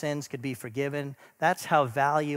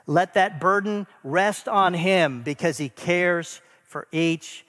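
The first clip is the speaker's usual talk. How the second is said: rising preaching urgency; 3 semitones higher, 4 dB louder than usual. Real, not acted. Preacher urging congregation to cast worries.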